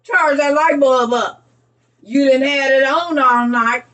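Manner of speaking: lightly voiced excited children; excited kids. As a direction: kids begging mama. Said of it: "Them kids about to be telling Mama".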